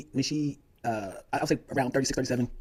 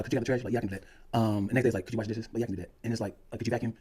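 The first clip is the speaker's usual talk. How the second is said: gentle request; 4 semitones lower, 8 dB quieter, faster than usual. Retold or imitated. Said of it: "It's just, it's like".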